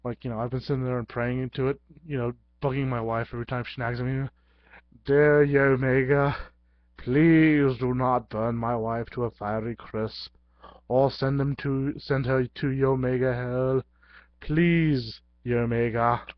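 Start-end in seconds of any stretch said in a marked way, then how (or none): 5.0-16.3 mock prayer.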